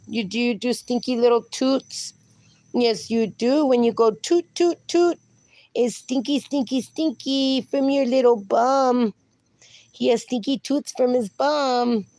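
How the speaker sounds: doting dog-mom voice. Real, not acted. Baby talk to her dog.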